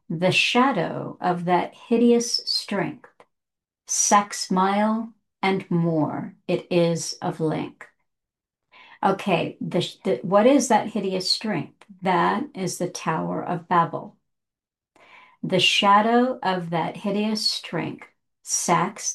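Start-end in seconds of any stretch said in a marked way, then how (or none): 0.1-7.9 slow, measured verse recital; spacing out each phrase of archaic verse; poem reading. Shown as a demonstration. Reads the poem's couplet. 15.4-19.1 slow, measured verse recital; spacing out each phrase of archaic verse; poem reading. Shown as a demonstration. Rereads the poem's couplet.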